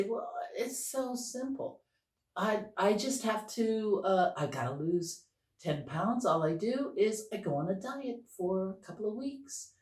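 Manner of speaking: lightly acted naive confidence; breezy self-assurance. Acting out the confident intellect.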